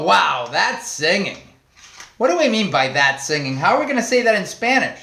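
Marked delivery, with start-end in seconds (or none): 0.0-1.4 impressed wow. Retold or imitated. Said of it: "And we go".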